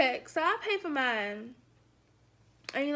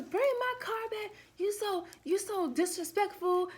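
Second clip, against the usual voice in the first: mock yelling; 5 semitones higher than usual. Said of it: "all I hear was".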